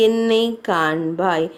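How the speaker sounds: broken plea. Acted. Aja pleading with his dead wife to look at him, low and slow. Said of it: "மனமுடைந்தவனாய் புலம்ப ஆரம்பித்தான்".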